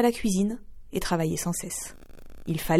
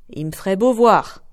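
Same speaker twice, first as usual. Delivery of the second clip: rude retort; 6 dB louder than usual. Acted. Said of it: "répondit la brutale".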